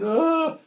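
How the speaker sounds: high-pitched imitated wail; mock weeping cry. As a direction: wail briefly, imitating someone in tears. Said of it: "They're crying out. They're weeping".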